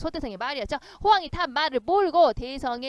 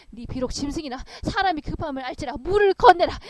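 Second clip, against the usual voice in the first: urgent command; 6 dB louder than usual. Acted. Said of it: "말한테 얘기를 했어요".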